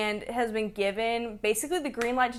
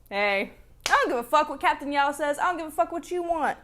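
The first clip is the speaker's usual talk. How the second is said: tough Strat; 5 semitones higher than usual. Acted. Acts out Strat's harsh words.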